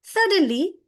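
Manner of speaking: dramatic story voice; suspenseful storytelling. Shown as a demonstration. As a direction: build up to the lion's roar.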